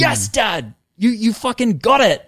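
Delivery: put-on high, loud childlike voice; high, loud voice of a tiny child; baby son's voice. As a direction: voice the baby boy, high and bright. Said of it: "He was looking at me with this".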